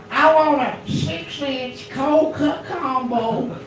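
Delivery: slow, high-pitched Southern redneck drawl; redneck Southern accent. Acted. Redneck customer ordering at a Subway drive-through, thick Southern accent. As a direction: stretch every word in a high redneck Southern twang. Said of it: "a redneck Southern accent".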